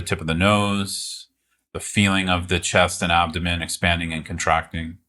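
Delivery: calm, unhurried guiding with long pauses; guided meditation. Real, not acted. Teacher guiding listeners to meet the present moment, calm meditation voice. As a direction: ease listeners into it, leaving space between phrases.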